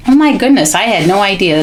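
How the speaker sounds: high burst of surprise, then quick; demonstrated astonished reaction. Shown as a demonstration. Parent reacting to shark book for child, astonished. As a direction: exclaim as if the book just astonished you. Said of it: "reacting to what it is that I'm reading".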